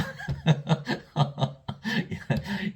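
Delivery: long laugh at one's own anecdote; hearty laugh. Real, not acted. Preacher amused by the widow's answer, laughing. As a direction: burst out laughing, breathy and sustained.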